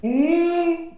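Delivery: surprised. Real, not acted. Sudden scare in game.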